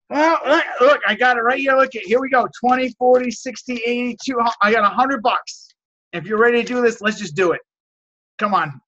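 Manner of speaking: re-enacting how he coaxes a hard seller with cash in hand; eager cash pitch. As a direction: talk the seller into it, waving the cash. Retold pitch, cash counted out.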